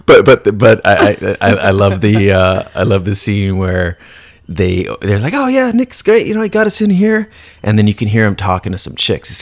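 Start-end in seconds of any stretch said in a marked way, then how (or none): 5.3-7.3 higher mock pleased vampires; lightly voiced vampires gloating; higher mock vampire praising Nick; smug vampires.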